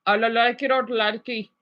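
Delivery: mock Indian accent "Namaste, namaste"; playful Hindi accent; Hindi-style greeting. Shown as a demonstration. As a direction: lightly imitate an Indian greeting. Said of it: "for Hindi, I would just say".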